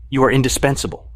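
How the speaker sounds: flat monotone voice. A narrator's reading. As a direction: say it with no expression at all. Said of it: "I tell him in monotone".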